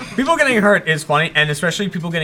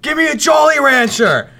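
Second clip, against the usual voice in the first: higher, louder, slow call across lanes; yelled request; 9 semitones higher, 4 dB louder than usual. Retold or imitated. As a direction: shout it out a car window. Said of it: "and he's like".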